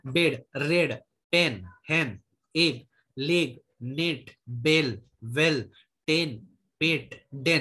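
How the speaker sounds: बेड, रेड, पेन one by one with a short "e"; measured word list with short ए, as in बेड; short ए demo. Shown as a demonstration. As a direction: drill बेड, पेन, नेट slowly, each with छोटा ए. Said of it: "ह्रस्व ए मतलब छोटा ए".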